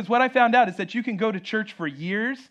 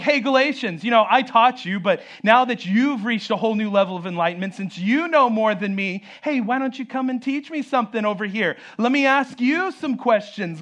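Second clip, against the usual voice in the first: lightly mocking challenge, pitched up; sarcastic, sassy; 3 semitones higher than usual. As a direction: act out a sassy apostle teasing his pupils. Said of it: "being a little sarcastic, maybe a little sassy".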